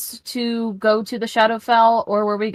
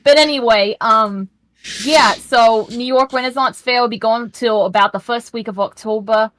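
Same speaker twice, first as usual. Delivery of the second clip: put-on New York accent. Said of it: "I won't have this accent".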